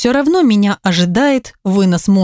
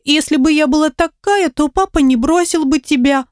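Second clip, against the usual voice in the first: put-on higher little girl, lightly sobbing; a small girl pleading through mild tears; higher child's voice with a hint of sobbing; 7 semitones higher than usual. A narrator's reading. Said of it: "всхлипнула она".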